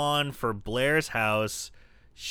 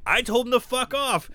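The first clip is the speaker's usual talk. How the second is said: higher, scornful brush-off; snide Blair; 10 semitones higher, 4 dB louder than usual. Retold or imitated. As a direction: toss it off like a mean girl. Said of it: "And she's like".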